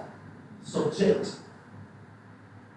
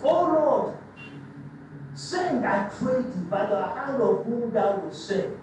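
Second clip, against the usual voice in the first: polite prayer. Retold or imitated. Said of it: "he said it polite".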